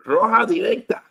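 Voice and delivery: high, loud Spanish call; excited call. Real, not acted. Calling for a straight red.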